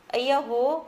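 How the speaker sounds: a mild excited shout of delight; loud excited cry. A narrator's reading. Nisha on meeting Amit, a mild excited shout. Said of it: "ती जोरात ओरडत म्हणाली".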